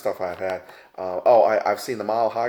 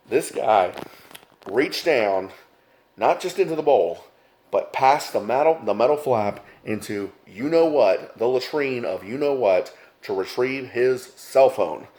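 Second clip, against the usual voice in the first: louder and higher, slowing for the punchline; excited build; 3 semitones higher, 4 dB louder, slower than usual. Real, not acted. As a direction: relish the disgusting climax. Building to the gross climax.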